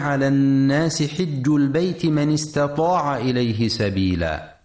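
measured recital of a holy verse; Quran recitation. Shown as a demonstration. Teacher reciting a verse to radio listeners, Quran recitation. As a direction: recite it with careful tajweed.

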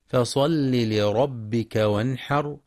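slow, measured tajweed recitation; Quran recitation. Shown as a demonstration. Teacher reciting the verse for students, slow chant. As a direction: chant the verse slowly and evenly.

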